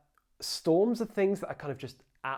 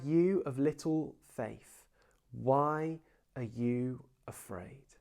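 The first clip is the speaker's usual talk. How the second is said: gentle rebuke; much slower than usual. Acted. Jesus gently rebukes the disciples.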